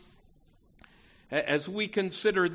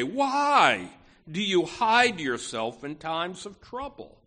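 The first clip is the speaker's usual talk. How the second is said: pained cry; 4 dB louder than usual. Acted. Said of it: "you can hear the pain in the psalmist's voice".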